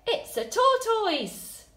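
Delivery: high, loud, slowed cry of shock; surprised shout. Shown as a demonstration. Teacher modelling a capital-letter exclamation, loud and surprised. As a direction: cry it out as if you can't believe it. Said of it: "I'm really surprised that it's a tortoise".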